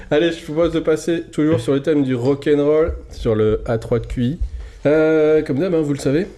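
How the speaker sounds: put-on old-time radio host, upbeat and formal; 1950s announcer voice. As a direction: present it like a fifties game show host. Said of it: "la voix de présentateur des années cinquante".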